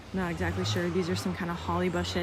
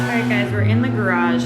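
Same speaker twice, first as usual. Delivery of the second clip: raised voice over loud noise; yelling over leaf blower; 7 dB louder than usual. Real, not acted. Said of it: "sorry, leaf blower".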